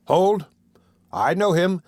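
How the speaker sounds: excited call. A narrator's reading. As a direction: call out, you've spotted him. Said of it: "said one of them".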